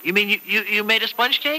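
high, rising amazed question; can't believe she baked it; delighted disbelief. Acted. Husband surprised by wife's cake.

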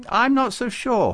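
high, loud Farouk-style character voice; eager saint, disputing. Acted. Farouk disputing with Babucar about sheep, insistent. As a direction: argue back, pitched right up.

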